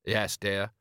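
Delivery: meekly dutiful husband; understated henpecked compliance. Acted. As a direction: answer like a resigned, obedient husband. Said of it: "You're using your henpecked voice".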